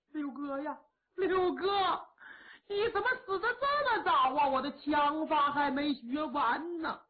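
high, fast, wailing sobs for a fallen comrade; loud wailing lament. Acted. Hu Pijian wails over Liu Lang's coffin, weeping loudly. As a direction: cry out the dead man's name in grief. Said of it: "也大放悲声".

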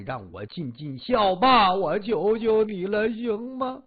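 mild, theatrical sing-song begging; tearful pleading. Acted. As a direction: plead on and on for mother's life. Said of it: "哭着喊着".

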